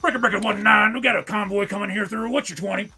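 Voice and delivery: lightly voiced trucker on CB radio. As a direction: breaker breaker, over the CB radio. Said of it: "I was doing my trucker shtick".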